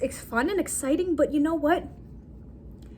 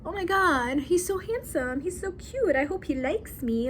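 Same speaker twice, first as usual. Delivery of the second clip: higher-pitched giddy gushing; giddy crush; 5 semitones higher than usual. Retold or imitated. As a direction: gush like a girl on a first date, playfully imitated.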